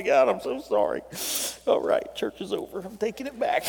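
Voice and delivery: jokey prayer breaking into laughter; self-mocking prayer, chuckling; laughing mock prayer. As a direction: act out your own fake repentance, laughing.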